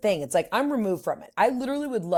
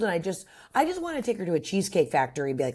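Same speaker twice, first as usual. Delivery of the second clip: ordinary talk, nothing marked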